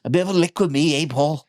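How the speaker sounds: coaxing imitation of Craig Charles's accent. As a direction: wheedle a mate in a put-on Craig Charles accent. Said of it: "try and do it in the accent".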